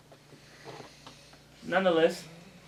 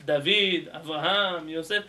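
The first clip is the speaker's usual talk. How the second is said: formal name calls; 5 dB louder, slower than usual. Shown as a demonstration. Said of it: "when you wanna be formal".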